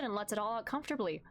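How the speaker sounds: normal talking voice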